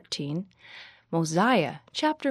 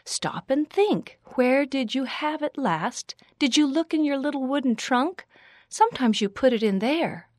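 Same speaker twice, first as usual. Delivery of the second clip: high, patient motherly questioning; 7 semitones higher than usual. A narrator's reading. Girl helping her friend retrace steps, motherly. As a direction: coax her gently like a little mother. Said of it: "in her best motherly voice".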